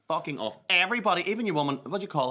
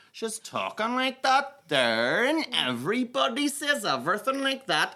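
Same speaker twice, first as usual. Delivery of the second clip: mock posh accent; 11 semitones higher, 3 dB louder, slower than usual. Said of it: "Nobody talks like that".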